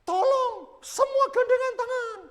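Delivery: high, loud rallying call; mimicked worship leader urging everyone; insistent worship leader. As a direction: call it out high to the whole congregation. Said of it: "W L-nya tetap konsisten".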